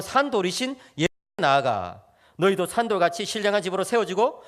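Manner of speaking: measured, solemn reading aloud; scripture reading. Real, not acted. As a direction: read the verse out formally, slowing into the close. Reads scripture to congregation. (성경 봉독하듯 또박또박)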